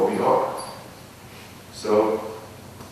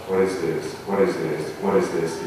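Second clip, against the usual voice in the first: rote recitation; 3 semitones lower than usual. Shown as a demonstration. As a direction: rattle off "What is this?" over and over in an even, routine way. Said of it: "it's not a recitation".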